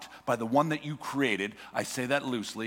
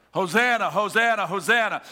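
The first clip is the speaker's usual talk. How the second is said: crowd cheering; 4 semitones higher, 5 dB louder than usual. Retold or imitated. Crowd hailing Jesus.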